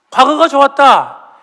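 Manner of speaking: hammed-up wistful cry from the pulpit; mock longing. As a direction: play up the nostalgia for Egypt. Preacher acts out Israelites' longing.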